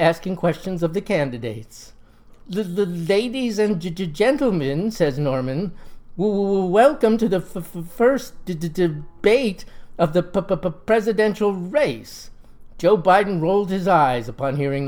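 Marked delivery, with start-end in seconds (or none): 2.5-4.9 stutter. Acted. Lodge president opening the debate, stuttering. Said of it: "he has a distinct stutter". 6.2-12.3 stutter. Acted. Lodge president opening the debate, stuttering. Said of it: "he has a distinct stutter".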